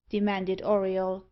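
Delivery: ordinary delivery, nothing marked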